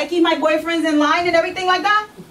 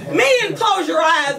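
slow, drawn-out order to the men; preaching command; slower than usual. Acted. Preacher ordering the men not to look, hammed-up command.

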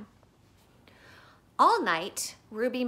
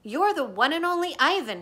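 higher, louder bright pep voice; Bob cheering Ivan; 6 semitones higher, 4 dB louder than usual. Acted. Bob on Ivan's belly, cheering him higher and louder. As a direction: lift Ivan up with it. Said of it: "he says".

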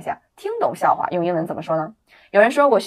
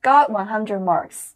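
very slow, louder drill; slow repeat; 2 semitones higher, 4 dB louder, much slower than usual. Shown as a demonstration. Teacher has students repeat it, very slow. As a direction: drag it out for the class to copy. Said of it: "再来一遍".

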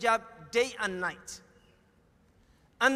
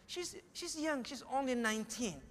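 lightly acted hesitant plea; acted sheepish excuse; 2 semitones higher, 6 dB quieter than usual. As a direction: imitate a parent meekly making excuses. Acted parent making excuses for daughter.

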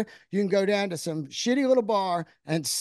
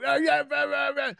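mock nostalgic cheering; 8 semitones higher than usual. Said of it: "I don't sit there and go".

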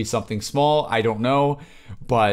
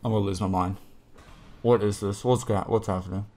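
hushed awe; 6 semitones lower, 6 dB quieter than usual. Real, not acted. Awed watching the trailer.

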